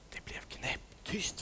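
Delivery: slow hushed whisper. A narrator's reading. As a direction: whisper the silence. Storm suddenly silent.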